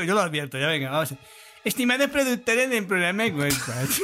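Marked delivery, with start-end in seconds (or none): 1.6-4.0 lightly voiced dignified woman; a hint of a proper lady reading; man doing a woman's voice. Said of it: "Haz voz de mujer, pero imprímele dignidad".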